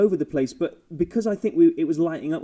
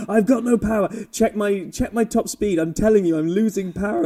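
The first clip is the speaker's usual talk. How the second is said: mock Perez complaint; 6 semitones higher than usual. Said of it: "He's like".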